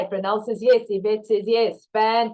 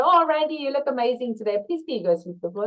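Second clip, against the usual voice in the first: upbeat compliment; 4 semitones higher, faster than usual. Retold or imitated. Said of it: "spark a little bit of positivity and go".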